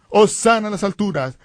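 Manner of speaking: aclamación alta de una multitud, contenida; grito imitado. Retold or imitated. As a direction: imitar el clamor del pueblo. (grito moderado de alabanza)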